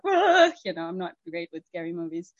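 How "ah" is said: short, higher "ah" of fright; mock scared cry. Speaker admits to being bad with scary movies, mock scared cry. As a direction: act out a little movie scare. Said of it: "me in scary movies, I'm like".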